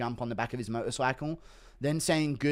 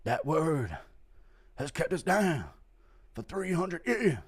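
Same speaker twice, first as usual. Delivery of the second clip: Chandler lecture speech; 3 semitones higher, slower than usual. Acted. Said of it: "Chandler ... goes".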